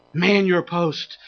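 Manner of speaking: low, soft, slow command; quiet, weighty repeat of a rallying call; hushed exhortation. Real, not acted. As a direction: drop down and say it deliberately. Same command repeated after a hush.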